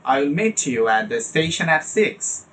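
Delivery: slow model sentence stressing "meet", "station" and "six"; slow, varied sentence stress on "meet", "station", "six"; content-word stress. Shown as a demonstration. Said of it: "এই যে variation থাকতে হবে".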